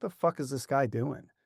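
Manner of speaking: normal talking voice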